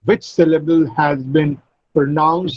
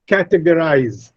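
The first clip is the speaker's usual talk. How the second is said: "categorize" said CAT-egorize, CA prominent; stress on CA. Shown as a demonstration. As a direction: hit the first syllable of "categorize". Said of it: "Ca is stressed".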